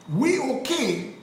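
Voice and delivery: high, slow "we okay"; mock acceptance. Public shrugging off a coup, drawn-out mock acceptance. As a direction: stretch it out high, mimicking the public.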